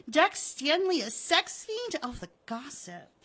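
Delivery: laughing, high scandalized delight; laugh, then pitch it high as you savor the scandal; relishing juicy gossip, settling at the end; gleeful gossip. Acted. Wilma relishes scandalous letter.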